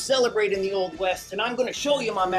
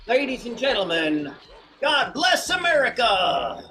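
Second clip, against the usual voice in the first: slow grand patriotic proclamation; showman announcement. Acted. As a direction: announce it like a ringmaster.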